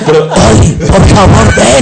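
high, loud chirpy canary voice; cartoon bird voice. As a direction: squeak it out like a little songbird. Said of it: "No, no, es una voz de canario".

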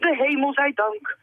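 high, drawn-out relief and delight; thrilled story-character voice; delighted cry. A narrator's reading. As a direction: give thanks overjoyed, slowly and high. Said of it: "riep meneer Panini verrukt".

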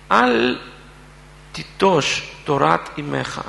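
measured reading with long pauses; scripture reading. Real, not acted. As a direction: read the verse out solemnly, phrase by phrase. Reads the verses aloud.

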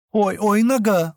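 high, whiny little cry of pain; mock pitiful ouch from a hurt foot; плаксивый жалобный вскрик; plaintive cry. A narrator's reading. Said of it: "жалобный голос Келлы".

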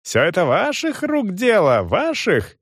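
high, drawn-out indignant accusation; angry yelling. A narrator's reading. Young man accuses the manager, furious. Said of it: "орал Гирш".

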